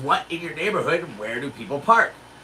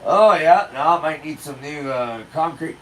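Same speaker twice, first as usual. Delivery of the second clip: feigned casualness; 3 semitones lower than usual. Pretend. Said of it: "I have to pretend like I'm".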